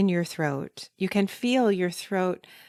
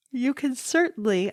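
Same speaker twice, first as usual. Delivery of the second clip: higher words pushed through a yawn; yawning while talking; 6 semitones higher than usual. Real, not acted. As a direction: talk mid-yawn, throat stretched. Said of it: "and I'm still yawning".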